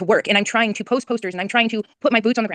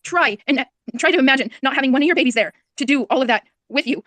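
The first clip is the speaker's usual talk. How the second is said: higher, pleading mother begging to be understood; distressed pleading; 3 semitones higher than usual. Real, not acted. Missing boy's mother begs host to imagine, distressed. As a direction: plead with rising desperation. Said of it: "I'm so hostile".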